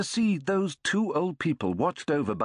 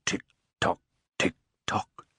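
clock ticking sound; 5 semitones lower, much slower than usual. A narrator's reading. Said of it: "The big clock snored".

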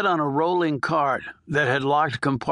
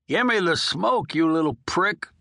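lightly voiced old prisoner begging; dying old convict; 4 semitones higher than usual. Old inmate coaxing the nurse for a smoke, lightly voiced. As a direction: wheedle like a hard old con, only a hint of a character voice.

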